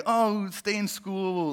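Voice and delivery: slow, syrupy mock cheer; sweet sappy send-off; sugary mock encouragement. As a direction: coo it like a motivational poster. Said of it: "all that nice".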